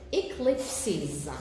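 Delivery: "eclipses" in three distinct beats, e-clip-ses; syllable by syllable. Shown as a demonstration. Teacher having students count vowels, "eclipses" in three clear syllables. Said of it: "How many vowels are pronounced?".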